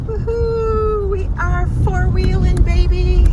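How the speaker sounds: high, loud whooping cheer; excited whoop. Real, not acted. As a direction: cheer like you're off-roading. Excited off-road driving cheer.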